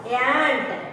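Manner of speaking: ANT with a ya glide into the vowel; ya sound in ant. Shown as a demonstration. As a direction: stretch ANT as if it held "ya". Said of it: "the pronunciation comes like that, yeah".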